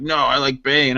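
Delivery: low, barely-there Bane imitation; half-hearted villain voice, no muffling; botched Bane voice. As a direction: imitate someone doing Bane all wrong. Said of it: "he tried to do a Bane voice, but he did it, like, all wrong".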